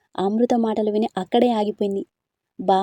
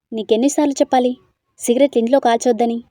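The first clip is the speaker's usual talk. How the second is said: scolding; 2 semitones higher, 5 dB louder than usual. Acted. Amrita scolds Yash for smoking.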